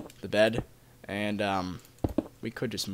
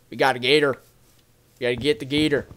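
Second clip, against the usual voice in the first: playing a Southern gator hunter, lightly; mock Southern accent; faster than usual. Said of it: "that's the type of accent I was trying to replicate".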